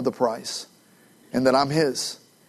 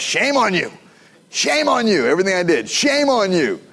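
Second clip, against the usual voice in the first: higher, mock-scolding voice; scolding grown-up; 5 semitones higher than usual. Adult scolding a child, imitated higher. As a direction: wag a finger at a small kid.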